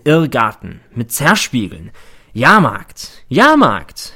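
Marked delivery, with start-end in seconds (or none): 2.3-3.3 loud fairground cry; barker call. Acted. Barker call in inner monologue. 3.3-4.1 loud, much higher fairground cry; second Jahrmarkt bigger and higher; barker shout. Acted. Barker call in inner monologue.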